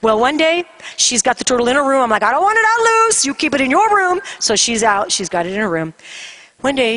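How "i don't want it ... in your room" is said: high-pitched nervous mom order; re-enacted alarmed scolding, pitch up; insistent warning. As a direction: lay down the rule urgently. Mother lays down rule.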